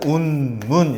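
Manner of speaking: "운문" as two drawn-out, separate syllables; measured syllables. Shown as a demonstration. Teacher illustrating verse with rhythm, "운문" in two measured syllables. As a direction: stretch "운문" into un, then mun. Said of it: "이렇게 하는 거야".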